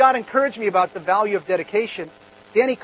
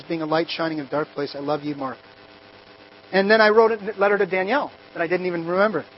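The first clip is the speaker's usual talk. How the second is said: tender; 4 semitones lower than usual. Retold or imitated. Reading tender old letters aloud.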